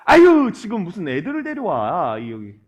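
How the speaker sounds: mildly mock-irritated grumble at parents; retold scolding. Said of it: "오히려 꾸짖었다라는 거예요". (가볍게 꾸짖는 흉내)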